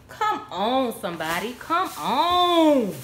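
hyped "Come on"; excited "Come on". Real, not acted. Hyping the bargain.

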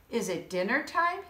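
lightly called goat question; a touch of calling out; mild call. Acted. Mister Goat calling down to Mister Moose, mild call. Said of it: "he called".

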